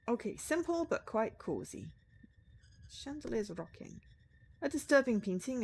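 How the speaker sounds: measured storytelling read; in-character game narration. Acted. Writer taking in a cosy bedroom, in-character narration. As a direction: voice the hero surveying the room. Reads room description in character.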